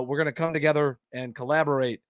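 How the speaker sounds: mild calm, measured politician; lightly voiced collected statesman; Obama. President calling for collaboration, lightly calm and collected. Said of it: "him being so calm, cool, and collected".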